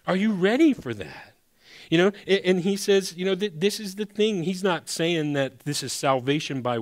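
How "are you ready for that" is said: pressing repeat. Shown as a demonstration. Pastor repeats question, raised.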